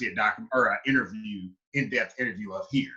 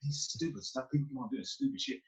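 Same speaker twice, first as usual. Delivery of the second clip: much softer, fed-up grumble; irritated mutter; 10 dB quieter than usual. Retold or imitated. Annoyed by daily stares, soft irritated mutter. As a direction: grumble it under your breath.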